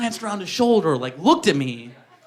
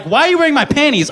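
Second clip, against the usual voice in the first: shocked ex; 7 semitones higher, 3 dB louder, faster than usual. Retold or imitated. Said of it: "she's like".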